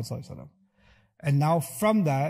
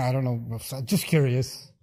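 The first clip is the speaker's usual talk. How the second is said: feigning ignorance; 2 semitones lower, slower than usual. Shown as a demonstration. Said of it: "You could pretend".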